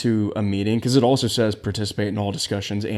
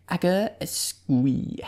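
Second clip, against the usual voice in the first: squeaky mock voice; 7 semitones higher, much slower than usual. Squeaky joke sound.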